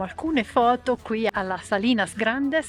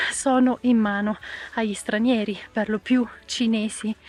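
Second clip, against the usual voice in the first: ancora col fiatone; senza fiato. Real, not acted. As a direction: parla col fiato corto. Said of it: "scusate il fiatone". (voce affannata dopo lo sforzo)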